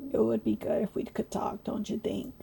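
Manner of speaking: unvoiced whisper; ghostly whisper. Ghost whispering to the passenger. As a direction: coax in a hush.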